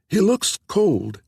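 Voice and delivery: high, slow voice of a frail wife; gentle, ailing woman. A narrator's reading.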